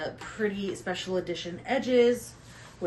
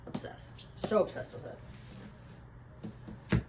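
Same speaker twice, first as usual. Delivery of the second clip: whispered confession of obsession; breathy whisper; 3 semitones higher, 5 dB quieter than usual. Real, not acted. Vlogger confessing to viewers, whispered. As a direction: hush it like a guilty secret.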